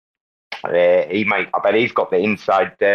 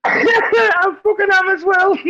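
high, loud, slow laughing yell; laughing shout; 3 dB louder, slower than usual. Real, not acted. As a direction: crack up while shouting it out. Caught eating KFC, laughing.

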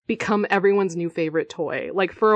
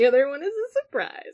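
laughing; 6 semitones higher, faster than usual. Real, not acted. Repeating teasingly with laughter.

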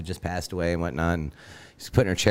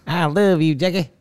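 high pleading voice; hammed-up pining, pitched up; mock lovesick plea; 8 semitones higher than usual. Jilted caller to his ex, high mock pleading.

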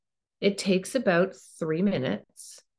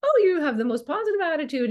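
higher, brighter gushing stranger; a hint of an impressed stranger, pitched up and louder; admiring compliment; 11 semitones higher, 4 dB louder, faster than usual. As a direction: gush a compliment in a lifted voice. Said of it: "suddenly going to compliment you".

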